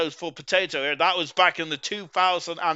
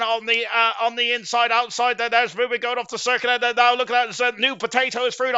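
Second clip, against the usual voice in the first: horse race commentator; 4 semitones higher than usual. Real, not acted. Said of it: "sound like a horse race commentator".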